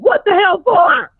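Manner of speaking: dad can't believe his ears; shocked dad. Retold or imitated. Dad shocked at hotel-room summons.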